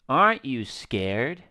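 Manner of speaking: slow mock-innocent question, rising at the end; imitating an innocent question, slowly; mock quote. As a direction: draw out the quoted question suspiciously. Streamer mockingly repeats the visitor's question.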